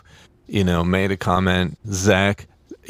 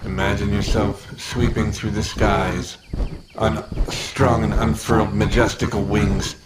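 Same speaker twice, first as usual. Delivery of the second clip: ad read. Acted. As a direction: sell it like a radio ad. Mock ad read for the studio.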